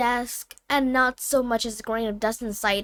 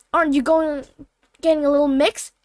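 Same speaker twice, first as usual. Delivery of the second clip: louder, higher teasing question; lightly voiced amused challenge, pushed louder; teasing man; 4 semitones higher, 5 dB louder than usual. A narrator's reading. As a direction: poke fun at her, raised voice. Man teasing the flustered girl.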